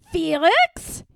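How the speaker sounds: sharp loud call of his name; yelling. A narrator's reading. Mom snaps his name in a loud yell. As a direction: mom yelling across the kitchen. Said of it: "yelled his mom".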